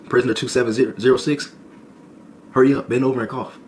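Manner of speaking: mock guard barking orders; a touch of a loud guard's command. Guard ordering the prisoner, mildly barked.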